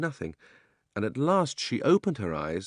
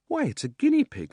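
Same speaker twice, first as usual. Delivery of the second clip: surprised; 4 dB louder than usual. A narrator's reading. Girl's surprised exclamation.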